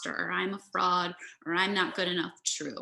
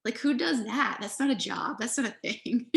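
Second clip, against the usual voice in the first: incredulous mind voice; 3 semitones higher than usual. Retold or imitated. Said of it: "And then your mind goes".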